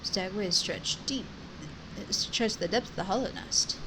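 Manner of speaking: lightly voiced old wise stag; stag character voice. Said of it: "and there's a stag".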